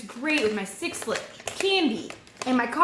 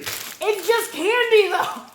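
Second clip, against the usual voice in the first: deadpan joke; 9 semitones higher, 6 dB louder, much slower than usual. Real, not acted. Dry joke about candy label.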